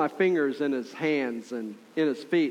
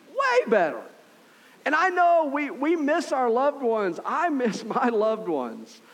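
impassioned preaching; 7 semitones higher than usual. Real, not acted. Pastor comforting the grieving church, impassioned and high. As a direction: lift it up with full feeling. Preacher rising to emotional peak.

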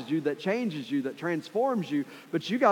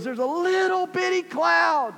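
very high, slow and wondering; excited servant; 12 semitones higher, 3 dB louder than usual. Acted. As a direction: marvel at a tiny cloud. Servant describes tiny cloud.

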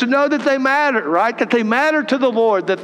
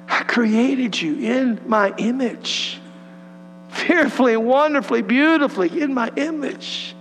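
voice of God. Acted. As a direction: speak as a loving father to his child, unhurried. Voicing God speaking tenderly.

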